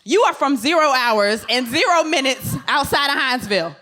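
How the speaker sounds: corrected take, laughing through it; chuckling retake after a flub; laughing redo. Real, not acted. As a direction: redo the line while giggling. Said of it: "I'm gonna redo it".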